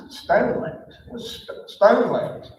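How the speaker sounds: questioning the odd name with a rising tune, halting mid-word; baffled, can't believe that's a name; puzzled repeat. Retold or imitated.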